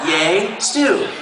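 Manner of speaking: slight rise on stew; lightly voiced cheer. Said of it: "That's what it says right there".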